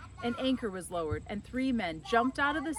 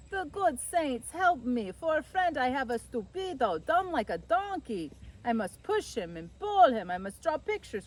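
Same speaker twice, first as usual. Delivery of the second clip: exasperated complaint; 6 semitones higher, 5 dB louder than usual. Acted. Angelo exasperated with his friend.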